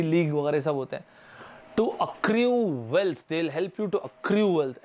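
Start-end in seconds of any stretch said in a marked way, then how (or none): 1.8-4.8 slow mock ad pitch; drawn-out imitation of a fantasy league ad. Teacher imitates a fantasy league ad for students, slow mock pitch. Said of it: "ऐसे ही तो present करते हैं ना ऐड".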